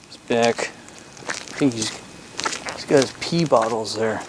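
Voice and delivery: hushed whisper so he won't hear; real whisper. Real, not acted. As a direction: drop to a soft whisper. Quietly noting someone nearby.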